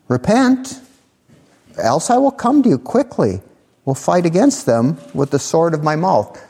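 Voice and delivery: stern rebuke. Acted. Preacher voices Jesus rebuking church.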